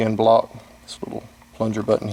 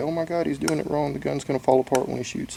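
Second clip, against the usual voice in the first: snarky, sarcastic, mocking put-on voice; 4 semitones higher, 6 dB quieter than usual. Imitating armorers who say the reassembly is wrong: sarcastic imitation of armorers. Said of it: "I'm being sarcastic again".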